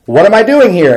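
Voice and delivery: high-pitched mock panic; retold freaking out. Retelling a skydiver at fourteen thousand feet, mock freaking out. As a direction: question yourself in playful, retold alarm. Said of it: "he's freaking out".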